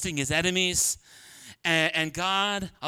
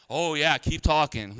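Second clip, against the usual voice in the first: sarcastic warning; 5 semitones lower than usual. Shown as a demonstration. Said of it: "what does that mean".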